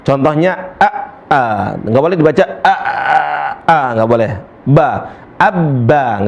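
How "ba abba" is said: abba with the doubled b stretched too long; wrong lengthened abba. Shown as a demonstration. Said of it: "nggak boleh dibaca abba". (salah dipanjangkan)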